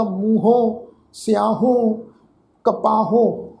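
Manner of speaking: ਮੂੰਹੋਂ ਸਿਆਹੋਂ ਕਪਾਹੋਂ with nasal endings, clearly spaced; pronunciation demo. Shown as a demonstration. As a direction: demonstrate ਮੂੰਹੋਂ ਸਿਆਹੋਂ ਕਪਾਹੋਂ word by word with a nasal final vowel. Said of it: "ਇਸ ਢੰਗ ਦੇ ਨਾਲ ਇਹਨਾਂ ਸ਼ਬਦਾਂ ਦਾ".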